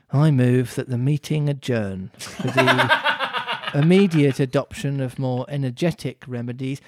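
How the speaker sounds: bored dodo. Acted. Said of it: "can the dodo just be really, like, bored".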